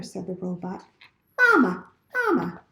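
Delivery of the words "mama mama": high, tiny chick voice with a cry; a newborn gosling crying out. A narrator's reading. Hatchling calling for its mother.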